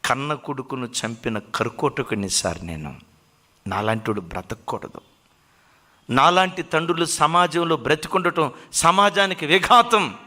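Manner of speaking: mildly acted guilt rising into begging for death; mock sobbing plea. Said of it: "అని ఏడుస్తున్నాడట".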